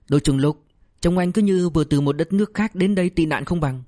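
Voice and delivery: teasing, scornful jab; mocking. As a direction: tease him about wolfing food. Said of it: "liền chế nhạo".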